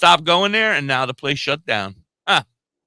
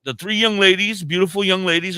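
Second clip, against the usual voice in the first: exaggerated politeness; 5 semitones higher than usual. Real, not acted. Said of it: "I apologize".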